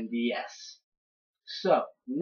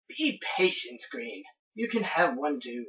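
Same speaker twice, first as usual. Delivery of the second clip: professor settling his grandson, lightly Australian; mildly Australian put-on voice; somewhat Australian accent. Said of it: "giving him somewhat of an Australian accent".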